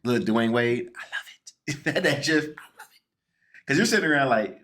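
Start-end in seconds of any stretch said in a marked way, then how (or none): 0.0-3.0 whisper. Real, not acted. Delighted aside under co-host's talk.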